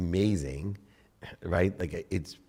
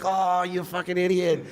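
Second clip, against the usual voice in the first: high, louder self-insult; inner voice cursing himself; 13 semitones higher, 5 dB louder than usual. Retold or imitated. Cursing himself for losing it with his wife, high and scornful. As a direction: hiss scorn at yourself. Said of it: "And I'm like".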